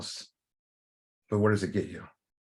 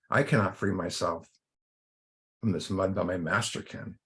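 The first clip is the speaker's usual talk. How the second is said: gentle reply. A narrator's reading. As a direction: answer calmly, voice easing down. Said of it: "gently replies and looks at him very gently".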